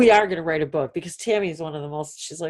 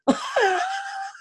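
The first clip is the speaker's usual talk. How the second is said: high burst of laughter. Real, not acted. Laughs at own outburst.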